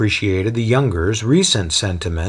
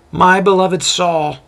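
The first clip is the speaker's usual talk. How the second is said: gushing; 9 semitones higher, 4 dB louder than usual. A narrator's reading. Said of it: "Lois gushes".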